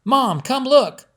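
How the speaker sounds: high, loud, slow excited shout. Acted. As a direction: call Mom down the hall thrilled. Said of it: "Lizzie shouted down the hall".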